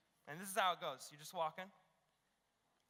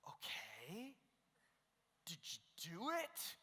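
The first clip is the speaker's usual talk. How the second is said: hushed question; 4 semitones lower, 8 dB quieter, slower than usual. Retold or imitated. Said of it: "And I'm like".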